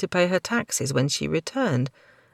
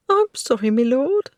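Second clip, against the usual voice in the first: higher, louder tearful begging; croaked plea; 9 semitones higher, 5 dB louder than usual. Acted. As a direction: beg him through held-back tears. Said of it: "she croaked".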